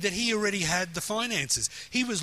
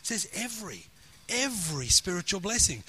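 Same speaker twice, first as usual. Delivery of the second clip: "every" set firmly against "some"; emphatic, repeated weight on "every"; stress on every. Shown as a demonstration. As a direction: lean on each "every" as a correction. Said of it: "has he given us some spiritual blessings?".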